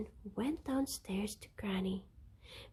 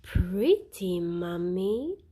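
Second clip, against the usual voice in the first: gasped; 8 dB louder, slower than usual. A narrator's reading. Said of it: "gasped the children".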